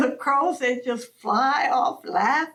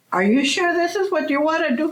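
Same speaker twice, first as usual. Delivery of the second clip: put-on old crow asking; 4 semitones higher, 4 dB louder, much faster than usual. Crow elder questions Coyote.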